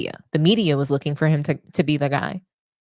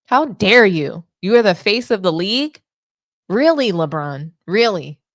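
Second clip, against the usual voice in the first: indignant; 4 dB louder than usual. Real, not acted. Scolding LeBron directly.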